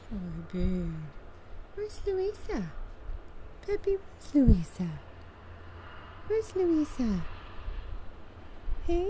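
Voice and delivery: loud, carrying call across the yard. Real, not acted. Owner calling loudly to her bird in the snow.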